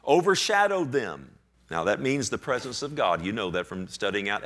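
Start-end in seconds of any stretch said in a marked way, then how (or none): 0.1-1.3 loud, raised, stretched-out scripture proclamation; grand proclamation. Retold or imitated. Preacher heralds God showing up to the congregation, grand proclamation. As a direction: declaim it with drawn-out grandeur. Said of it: "God shows up. He says".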